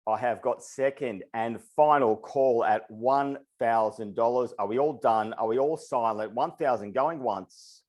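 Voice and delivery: rapid rhythmic auctioneer patter; auctioneer call. Acted. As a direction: keep the bids rolling like an auctioneer. Runs a live auction call.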